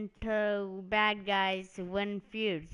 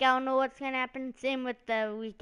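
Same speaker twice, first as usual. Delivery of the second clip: hyped-up line; 5 semitones higher, faster than usual. Shown as a demonstration. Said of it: "that was kinda dumb".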